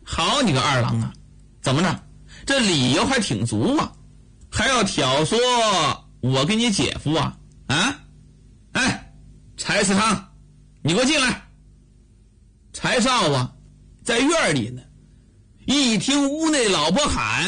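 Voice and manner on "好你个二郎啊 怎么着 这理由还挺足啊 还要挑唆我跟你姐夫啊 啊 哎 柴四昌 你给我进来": sharp, mocking reproach to a younger brother; scolding elder sister. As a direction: call him out, then summon the husband.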